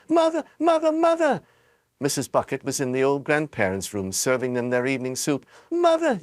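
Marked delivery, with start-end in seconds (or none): 0.1-1.4 high, loud calling out; shouting. A narrator's reading. Charlie bursts in shouting to his mother, high and loud. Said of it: "burst through the front door shouting". 5.7-6.2 high, loud yell. A narrator's reading. Charlie yells to his mother, high and loud. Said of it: "yelled Charlie".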